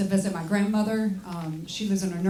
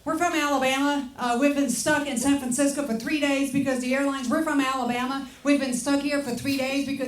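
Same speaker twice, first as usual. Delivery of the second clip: retold panicky tourist, slightly higher; mock panic; 4 semitones higher than usual. Stranded tourists complaining to the comedian, mock-panicked. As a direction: babble like a mildly panicked tourist, repeating yourself. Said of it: "They were totally panicked".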